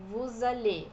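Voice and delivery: vous allez with a Z liaison and closed final e; vous allez, allez ending in a closed e; French pronunciation. Shown as a demonstration. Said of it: "o Z não é pronunciado e o E é fechadinho". (vous allez com E fechadinho no final)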